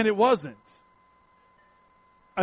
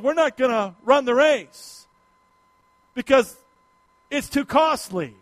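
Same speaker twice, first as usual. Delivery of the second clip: preaching; 2 semitones higher than usual. Acted. Pastor preaching to his congregation, in full voice.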